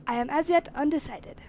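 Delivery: lightly attempted British accent. Master admitting he is undecided, British accent. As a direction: answer with a hint of British accent. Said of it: "doing a British accent".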